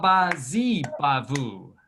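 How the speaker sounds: "Wabazi bavu" said slowly and clearly; slow model phrase. Shown as a demonstration. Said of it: "repeat after me".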